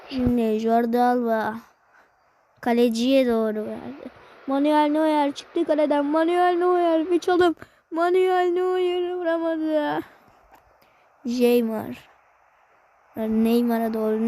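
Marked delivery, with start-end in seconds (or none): 4.5-10.0 building commentator excitement. Acted. Live football game commentary.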